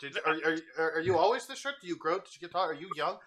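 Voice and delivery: high, bubbly chatter of an overeager cat; excitable cat girl voice. Acted. Roxy the cat introducing herself to Garth, high and excitable. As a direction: gush like a hyperactive kitten meeting new friends.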